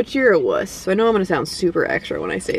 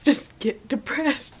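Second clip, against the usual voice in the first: real laugh breaking into the words; slow down and crack up at the end; 4 dB quieter, slower than usual. Real, not acted. Vlogger admits dogs get depressed, can't help laughing. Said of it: "I shouldn't be laughing".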